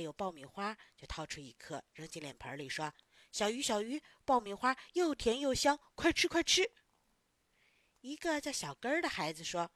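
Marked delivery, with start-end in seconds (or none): 3.3-6.7 put-on child urging a pet to eat; eager coaxing. Child coaxing fish with popcorn.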